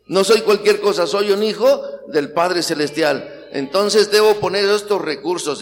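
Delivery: loud, slow, emphatic confession; proud declaration. Shown as a demonstration. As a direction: declare it with pride and conviction.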